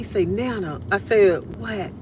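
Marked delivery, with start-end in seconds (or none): 0.3-0.8 soft imitation of a whispering grandson; mock whisper, still voiced; retold child's whisper. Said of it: "He was whispering". 1.6-1.9 hushed, softly voiced reply; mock whisper of a question; retold whispering. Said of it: "he had me, um, whispering".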